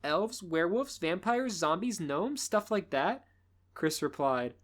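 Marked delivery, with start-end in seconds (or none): 0.0-3.2 sassy. Acted. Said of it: "with a sassy attitude".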